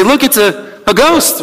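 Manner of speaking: startled, pitched high and rising; mock alarm at seeing a ghost; frightened cry. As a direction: disciples crying out in fright at a ghost on the water. Disciples see figure on water.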